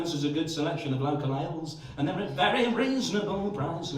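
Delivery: lightly voiced rock-star impression; casually review the pub in a singer's put-on voice; a hint of a famous singer, chatting over a pint; a singer. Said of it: "an impression of a famous singer in a Wetherspoons".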